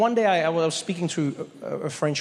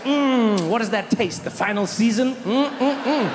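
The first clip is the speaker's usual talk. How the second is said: savoring; 4 semitones higher, slower than usual. Pretend. Savoring the taste of America.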